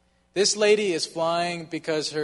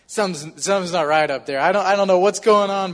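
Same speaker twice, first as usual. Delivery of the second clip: uneasy worry; 3 semitones higher, 7 dB louder than usual. Retold or imitated. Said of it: "and I was like".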